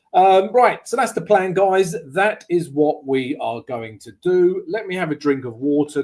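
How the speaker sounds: slightly croaky, hoarse throat. Real, not acted. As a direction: talk through a croaky voice. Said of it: "I have a slightly croaky voice".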